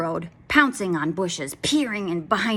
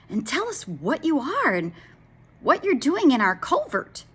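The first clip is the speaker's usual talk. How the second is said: cow voice; 7 semitones higher, 4 dB louder than usual. Acted. Cows question the dragon.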